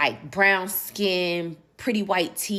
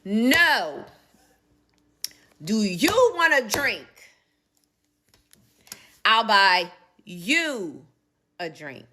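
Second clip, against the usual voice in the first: man's voice; 5 semitones higher, 6 dB louder, much slower than usual. Retold or imitated. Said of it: "He said".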